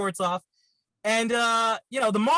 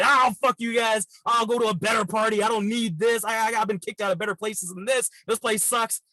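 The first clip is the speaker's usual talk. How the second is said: half-acted angry yell at friends telling him to leave; storming off the party, fed up; mad outburst; 2 semitones higher than usual. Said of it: "I was mad".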